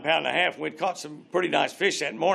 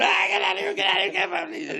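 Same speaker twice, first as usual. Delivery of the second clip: high, frantic shout to back off; retold shout. Hooked friend yells at the caster to get away, frantic. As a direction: yell him away in a panic. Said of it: "And Bill's going".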